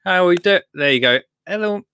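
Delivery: a half-hearted go at a Welsh lilt, then giving up; cheery Welsh-accent greeting to Carl, done badly. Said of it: "I can't do the accent".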